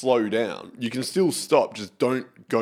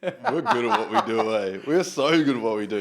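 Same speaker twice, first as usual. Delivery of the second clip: high laughing brag; laughing boast; 4 semitones higher than usual. Real, not acted. Mate laughing, proud of the prank. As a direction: brag while cracking up.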